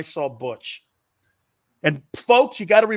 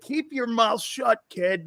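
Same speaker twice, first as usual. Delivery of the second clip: riot act; 6 semitones higher, slower than usual. Retold or imitated. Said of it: "read me the riot act going".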